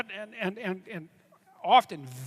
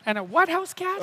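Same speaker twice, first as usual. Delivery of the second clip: high, louder, puzzled what?; surprised disbelief; 10 semitones higher, 5 dB louder than usual. Real, not acted. Guest caught off guard by the host's odd question, surprised. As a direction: catch the odd word and throw it back.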